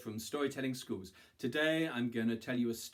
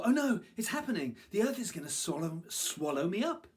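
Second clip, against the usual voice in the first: high, loud alarm; panicked monkey; 8 semitones higher, 5 dB louder than usual. A narrator's reading. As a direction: cry out in acted panic.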